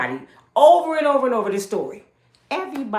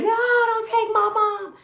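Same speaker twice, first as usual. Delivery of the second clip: imitating crying daughter; 3 dB louder than usual. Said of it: "Now my daughter crying, screaming".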